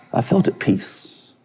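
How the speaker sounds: soft, slow and breathless; quiet slow near-whisper; hushed. Real, not acted. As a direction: let it fall to almost nothing, at peace. Recalling peace in deer blind.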